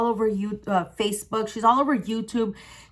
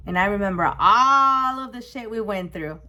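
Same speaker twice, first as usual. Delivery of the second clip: choked up. Real, not acted. Recalling trauma, voice cracks.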